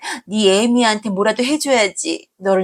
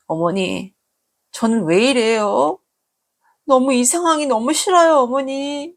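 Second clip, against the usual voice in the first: distraught; 6 semitones higher than usual. Acted. Daughter breaks down to mother-in-law.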